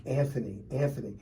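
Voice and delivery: softly calling the name, growing fainter each time; a weak voice calling from out of sight, fading away; faint distant calling. Retold or imitated. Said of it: "It's like".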